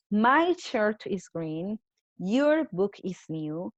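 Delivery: slow, careful reading of example sentences; slow reading aloud. Shown as a demonstration. Teacher to her class, slow and careful reading. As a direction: read each sentence slowly for the class. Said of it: "teacher reading examples aloud".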